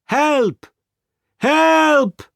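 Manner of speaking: high, sustained cry for help; calling for help. A narrator's reading. Servant calls for his speechless master, crying out high. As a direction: call out high for rescue. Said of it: "Conseil immediately called".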